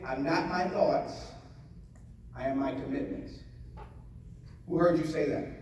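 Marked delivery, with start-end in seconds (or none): 0.0-3.4 slow and softer, each word placed; slow soft affirmation. Shown as a demonstration. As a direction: say it slowly like a calm inner vow. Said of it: "Say this in your head".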